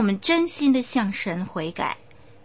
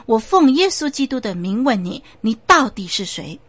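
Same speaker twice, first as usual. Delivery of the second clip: louder, forceful demand; stern command; 2 semitones higher, 5 dB louder than usual. Acted. The pastor repeats his demand louder, stern and forceful. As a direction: press the spirit harder.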